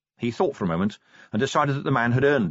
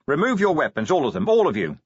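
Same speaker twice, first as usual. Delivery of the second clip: louder, firm order to the room; stern command; 6 semitones higher, 4 dB louder than usual. A narrator's reading. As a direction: lay down the law.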